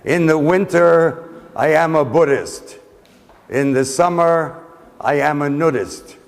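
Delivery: measured verse delivery with deliberate pauses; poem recitation. Retold or imitated. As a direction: recite line by line, letting each phrase land. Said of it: "read his poem saying".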